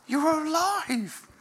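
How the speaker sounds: high and slow, marvelling; overwhelmed joyful disbelief. Retold or imitated. Ian Wright seeing his coach alive, slow high marvelling. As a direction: let the wonder stretch each word. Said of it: "incredible sense of joy".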